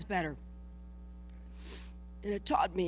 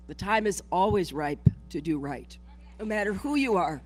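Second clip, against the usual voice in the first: rally speech; 4 dB louder than usual. Real, not acted. Quoting King at rally.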